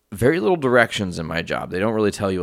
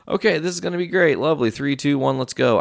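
retold self pep-talk; 7 semitones higher than usual. Psyching himself up for the rain.

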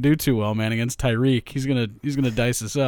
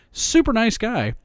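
sarcastic; 9 semitones higher than usual. Real, not acted. Ironic comment on racist tweet.

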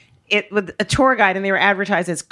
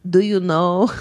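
put-on Greek accent sliding toward Dracula; bad Greek accent; 3 semitones lower, slower than usual. Greek driver quizzing his American passengers, badly imitated Greek accent. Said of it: "I can't do the accent. I sound like Dracula".

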